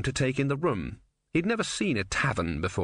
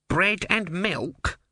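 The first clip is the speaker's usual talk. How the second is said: barman's offer; 8 semitones higher, much slower than usual. A narrator's reading. Barman offers the tortoise food.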